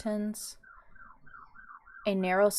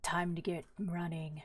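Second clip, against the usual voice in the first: softer, understated gravelly growl; 5 dB quieter than usual. Acted. Roan warns the group to run, gravelly growl. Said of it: "gravelly growl of Roan's voice".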